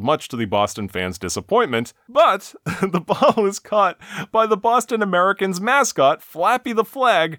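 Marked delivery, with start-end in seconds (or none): 2.1-7.4 higher-pitched mock sports announcer; excited play call. Host recounts mascot catching ball for Boston, excited higher announcer voice. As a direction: build up the big catch like a commentator.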